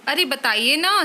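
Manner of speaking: coaxing wife asking for praise; lightly voiced, hopeful nudge; eager young wife. Wife coaxing husband about her cooking, eager.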